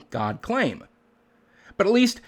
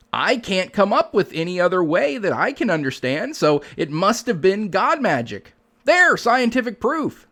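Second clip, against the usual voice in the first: lightly voiced believer, higher toward the end; mock incredulous believer; 3 semitones higher than usual. Skeptic parodying an argument from incredulity, mock-believer voice. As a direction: imitate a baffled believer, ending on a higher, triumphant verdict. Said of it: "boils down to an argument from incredulity, something like".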